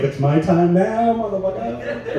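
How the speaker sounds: high, slow cocky gloat; cocky triumph. Acted. Stoner passing airport security, cocky. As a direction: draw it out like a smug boast.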